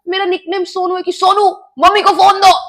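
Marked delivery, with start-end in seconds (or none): 1.1-2.6 retold shout, louder and higher; चिल्लाना. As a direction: imitate stepfather calling out an order. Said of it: "वो ऐसे अंदर से चिल्ला रहा है". (ऊँची आवाज़ में चिल्लाने की नकल)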